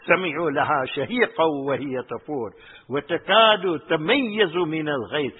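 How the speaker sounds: quick recited Arabic verse; fast Quran quote; Quran recitation. Acted. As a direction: rattle off the verse.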